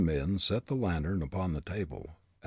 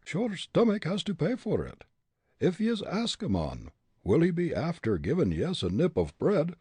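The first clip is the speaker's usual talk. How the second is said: high, indignant Irish grumbler; lively lilting Irishman, pitched up; Irish brogue; 9 semitones higher, 3 dB louder than usual. A narrator's reading. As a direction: complain in a broad Irish brogue. Irishman's tirade in narrated story.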